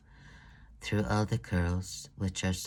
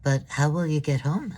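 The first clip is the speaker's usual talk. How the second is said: higher, louder worried question; concerned call; 6 semitones higher, 7 dB louder than usual. Acted. Thea worries aloud as the girls walk off, higher. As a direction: ask in sudden concern.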